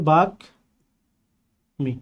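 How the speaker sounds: বাক and মি split apart with a pause, the m sounded; syllables split. Shown as a demonstration. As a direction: spell out বাক then মি slowly. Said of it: "এটা কি হবে".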